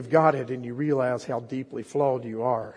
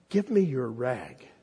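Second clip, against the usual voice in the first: gently; slower than usual. Acted. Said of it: "he said so gently".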